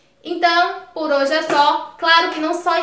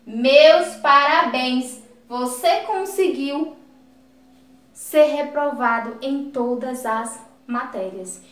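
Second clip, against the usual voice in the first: mild irony; slower than usual. Shown as a demonstration. Teacher repeats the ironic example about failing all subjects, mildly ironic. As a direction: offer understated ironic congratulations, deliberately drawn out. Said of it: "foi utilizado para fazer ironia com a pessoa".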